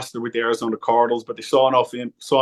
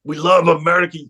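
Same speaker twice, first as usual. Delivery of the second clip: put-on Scottish accent; 6 semitones higher than usual. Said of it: "I can't do a Scottish accent".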